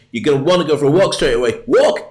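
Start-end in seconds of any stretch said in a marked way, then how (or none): 1.6-2.1 sudden high yelp of a word; excited dog. Pretend. Dog hearing walk mentioned, sudden excited yelp. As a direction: ears pricked, thrilled at the word.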